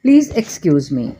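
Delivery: very slow, every word laid out clearly; slow model phrase. Shown as a demonstration. Teacher slowly models an English apology for Hindi learners. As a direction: say it slowly so learners can repeat it. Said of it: "फिर आता है".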